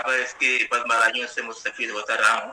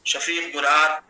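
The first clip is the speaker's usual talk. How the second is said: steady, metrical mushaira delivery; Urdu poetry recitation. Acted. Poet honouring the academy's head at an online mushaira, measured poetry recitation. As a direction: recite the verse in measured phrases, resting on the refrain.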